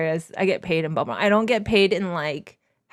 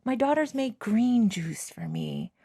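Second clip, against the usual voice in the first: pretend grateful mom; 4 semitones higher than usual. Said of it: "Not like".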